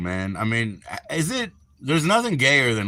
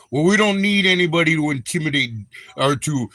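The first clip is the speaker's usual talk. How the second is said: put-on Minnesota accent. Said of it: "they call it Minnesota nice".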